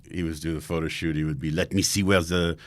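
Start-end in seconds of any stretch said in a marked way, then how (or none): 1.5-2.6 put-on French accent. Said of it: "That's such a good French accent".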